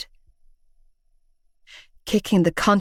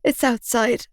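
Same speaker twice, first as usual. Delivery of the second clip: sniffling; 4 semitones higher than usual. Acted. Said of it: "I sniffled".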